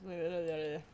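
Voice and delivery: tongue-tangled gibberish blurt; mock mixed-up mumbo jumbo; garbled words. Shown as a demonstration. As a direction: jumble the syllables into nonsense. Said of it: "it just comes out as".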